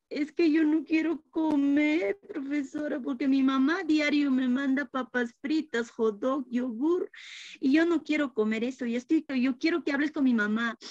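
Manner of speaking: put-on a little kid whining about his packed lunch; whiny little boy. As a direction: preschooler complaining to his teacher about his mom's lunches. Matías complains about lunch.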